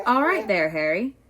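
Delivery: shouted across, loud; yelled greeting. Acted. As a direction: call out over the wind. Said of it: "had time to yell".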